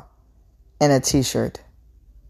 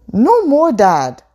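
desperate cry; 9 semitones higher, 6 dB louder, slower than usual. A narrator's reading. Daughter stops father's blows.

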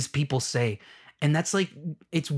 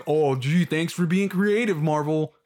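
sarcastic. Real, not acted. Sarcastic thanks to Marvel.

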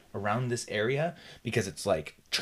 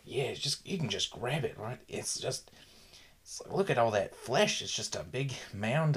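higher-pitched mock Australian doctor; Australian accent; 4 semitones higher than usual. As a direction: put on a casual Australian accent. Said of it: "like, this Australian accent".

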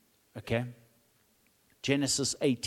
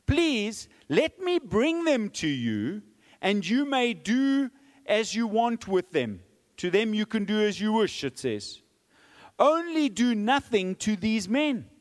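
pleading offer; 6 semitones higher than usual. Acted. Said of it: "Lot says".

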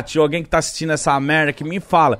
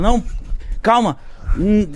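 hesitant, higher mock-alarmed voice; imitated startled woman; 5 semitones higher than usual. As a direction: mimic her stalling, flustered. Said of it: "ela ficou toda assustada".

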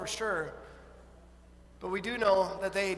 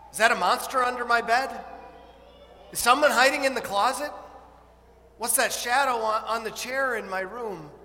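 higher, louder frightened whispers-turned-questions; imagine a kid peering at shadows, spooked; scared child's questions; 3 semitones higher, 5 dB louder than usual. Pretend. Child imagining monsters at night.

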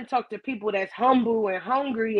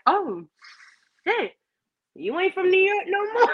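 surprised jeer, rising higher at the end; mock surprise; 9 semitones higher than usual. Host mocks a New Yorker who lost, surprised. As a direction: feign shock at the beaten braggart. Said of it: "I'm like".

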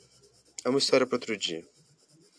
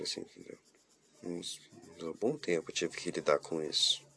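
hushed sadness; 4 semitones lower, 6 dB quieter than usual. Real, not acted. Sad story about mother.

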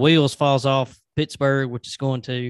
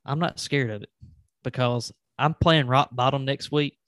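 wrestling promo. Pretend. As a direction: call out the opponent like a wrestler. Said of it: "I feel like I should cut a promo".

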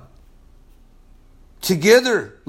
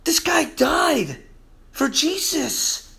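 drawn-out, shouted high; slow preaching shout; 6 semitones higher, 4 dB quieter, slower than usual. Real, not acted. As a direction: cry it out slowly, like a preacher at full force. Preacher's climax about the martyr.

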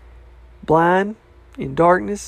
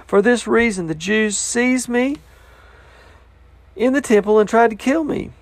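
animated Bible reading, pitch lifted at times; scripture reading. Acted. Preacher reads Paul's speech to King Agrippa, animated scripture reading. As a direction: read Paul's defence out with conviction.

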